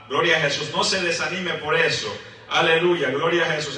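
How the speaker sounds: loud joyful preacher's cry; fervent praise. Real, not acted. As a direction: lift the church with praise. (alabanza fuerte y fervorosa)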